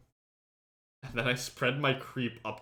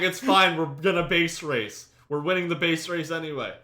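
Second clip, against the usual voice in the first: mock breezy reassurance; 6 semitones higher, 7 dB louder than usual. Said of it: "And I'm like".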